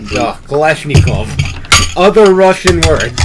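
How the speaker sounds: put-on slow, joking Russian accent; hammed-up Russian accent; mock Russian accent. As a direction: show off a drawn-out Russian accent. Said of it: "Except for Russian and Irish".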